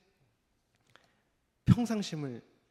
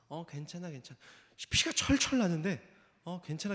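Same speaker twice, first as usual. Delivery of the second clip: calm reassurance. Retold or imitated. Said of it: "차분하게 아이를 달래주고". (피 나는 아이에게 조용하고 차분하게 괜찮다고)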